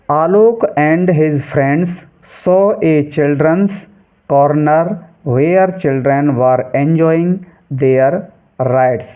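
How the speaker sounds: careful, drawn-out textbook reading; slow reading aloud. Shown as a demonstration. Teacher reading the English passage to students, slow and clear. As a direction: read each English word very slowly and clearly.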